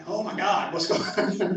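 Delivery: alarmed. Retold or imitated. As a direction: retell a moment of rising alarm. Retold alarm at the crying teacher.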